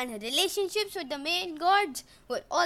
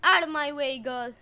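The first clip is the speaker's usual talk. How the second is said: grumbled; 5 dB louder than usual. Acted. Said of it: "Eric grumbled".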